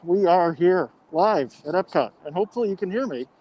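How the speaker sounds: muffled through a mask; talking through a face mask. Real, not acted. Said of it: "I'm talking through the mask".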